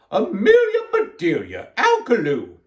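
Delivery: loud, scolding call of names; shouting. A narrator's reading. Miss Rogers summons the culprits, shouting. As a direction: call out both names loudly, starting high. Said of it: "shouted Miss Rogers".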